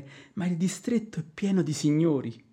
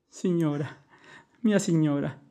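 tearful plea; 3 semitones lower than usual. Acted. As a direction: call her name through tears. Servant weeps over mistress's grief.

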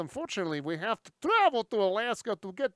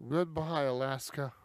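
mock sad farewell; 4 semitones lower, 5 dB quieter than usual. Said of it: "say goodbye".

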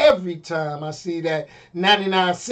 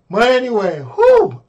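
out of breath; 3 semitones higher, 5 dB louder than usual. Real, not acted. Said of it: "I'm out of breath".

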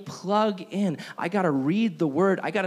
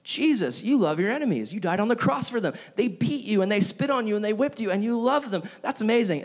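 higher, wide-eyed wonder; awed believer; 5 semitones higher than usual. Retold or imitated. Preacher voicing a believer amazed by Jesus, higher awe. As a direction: marvel at him. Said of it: "And you're like".

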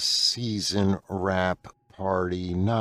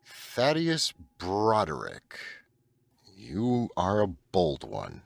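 mock villain greeting; slower than usual. Star Wars quote, slow.

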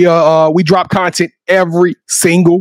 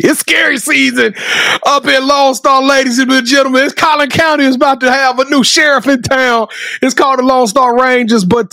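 higher-pitched mock ring-announcer hype; 6 semitones higher than usual. Host formally calling out next guests, hype announcer. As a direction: proclaim it like a big show announcer.

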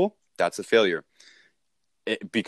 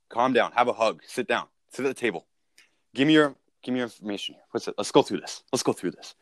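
calm in control. Retold or imitated. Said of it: "we need to be like".

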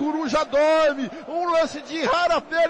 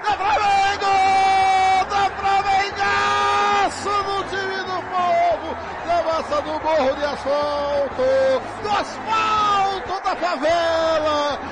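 goal celebration shout; 2 semitones higher than usual. Real, not acted.

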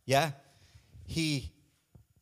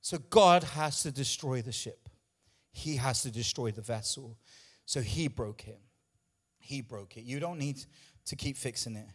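low, soft, winded after preaching hard; breathless, drained delivery; out of breath; 6 semitones lower, 6 dB quieter than usual. Real, not acted. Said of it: "I'm out of breath".

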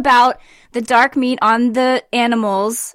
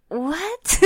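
laughing what; 8 semitones higher, 7 dB quieter than usual. Retold or imitated. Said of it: "I was like".

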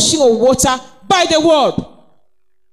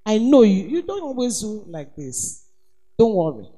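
gentle reassurance; 3 semitones lower, 4 dB quieter than usual. Shown as a demonstration. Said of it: "tell that woman".

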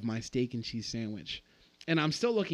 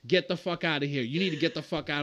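calm threat; 4 dB louder than usual. Retold or imitated. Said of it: "said very calmly".

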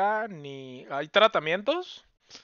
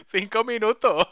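la Tierra harta; 5 semitones higher, 7 dB louder than usual. Pretend. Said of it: "la Tierra diciéndonos".

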